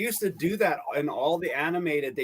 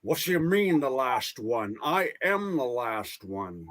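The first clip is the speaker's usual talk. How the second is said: Sean Connery impression; 4 semitones lower than usual. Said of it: "There you go, Sean Connery".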